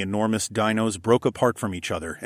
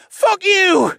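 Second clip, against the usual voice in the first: loud, high bellow; 8 dB louder than usual. A narrator's reading. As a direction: bellow it out a window. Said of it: "Mikey bellowed".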